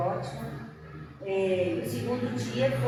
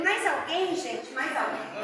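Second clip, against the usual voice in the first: more pleading ask; 4 semitones higher, slower than usual. Retold or imitated. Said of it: "Aí eu falei".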